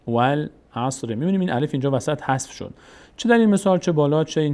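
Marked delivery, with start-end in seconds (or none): 0.1-1.1 والعصر in two linked parts, still slow; joined reading. Shown as a demonstration. Teacher putting the sounded-out example together, joined reading. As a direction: read والعصر joined up, slowly and evenly.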